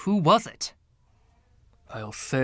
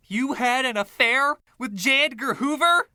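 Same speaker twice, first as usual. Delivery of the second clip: much higher and louder, astonished; shocked disbelief; 12 semitones higher, 4 dB louder than usual. Acted. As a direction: blurt it out in utter shock. Shocked at the revelation.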